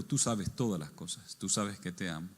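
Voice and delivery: low, soft, humbled reply; saddened. Retold or imitated. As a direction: answer quietly with understated sorrow. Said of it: "dice que se puso triste".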